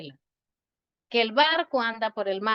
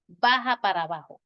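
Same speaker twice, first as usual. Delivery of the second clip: redundant example; 5 semitones higher than usual. Pretend. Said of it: "no tengo que estar diciendo".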